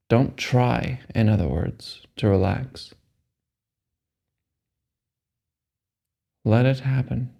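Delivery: slow, measured meditation guide; unhurried phrases with long, restful pauses; guided meditation. Acted. Guide telling a meditator to let the body relax, calm meditation voice.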